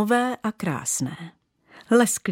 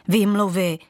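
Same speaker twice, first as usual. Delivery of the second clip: huffing. Acted. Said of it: "funěla nejdůležitější".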